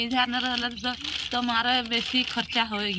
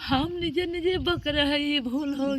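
tearful, raised voice; real crying; 3 semitones higher than usual. Real, not acted. Distraught woman blaming herself to her helper, crying. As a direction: weep through the words in self-blame. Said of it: "आप तो रो रहे हो बैठ के".

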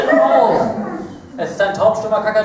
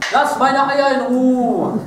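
parrot's voice; 3 semitones higher, much slower than usual. Acted. Speaks for the parrot.

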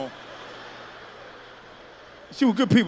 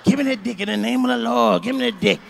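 mock devout Christian; 3 semitones higher, 4 dB louder than usual. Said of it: "talk like this. This motherfucker Christian".

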